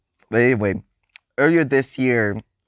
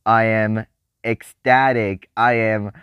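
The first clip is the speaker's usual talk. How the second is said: ecstatic; 4 dB louder than usual. Real, not acted. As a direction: lean on each word like a proud announcement. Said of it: "as you can hear".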